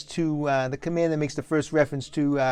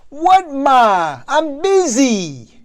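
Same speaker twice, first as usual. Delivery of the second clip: shouting back; 9 semitones higher, 8 dB louder, much slower than usual. Acted. Son shouts back at mother.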